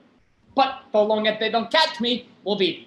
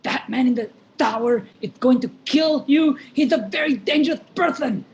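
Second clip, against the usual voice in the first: urgent shout. Acted.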